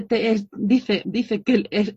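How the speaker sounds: usual speaking voice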